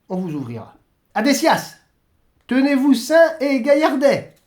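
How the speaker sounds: Saint-Pierre légèrement joué, bonhomme; Saint-Pierre bienveillant. Acted. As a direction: guide le curé avec bonhomie. Saint-Pierre indique le chemin. (légère voix de Saint-Pierre qui indique le chemin)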